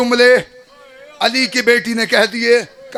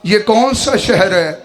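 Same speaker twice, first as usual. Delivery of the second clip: Zainab asking; slower than usual. Acted. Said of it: "बीवी ने कहा".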